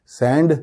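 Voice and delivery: "سینڈ" with a clear final D; separately sounded D. Shown as a demonstration. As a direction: land on the D in "سینڈ". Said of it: "ڈی کی آواز الگ سے بالکل نہیں آنی چاہیے". ("سینڈ" میں ڈی الگ سے)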